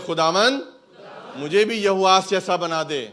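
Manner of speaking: loud, slow fervent preacher voice; preaching at full force. Acted. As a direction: drive each phrase home to the congregation.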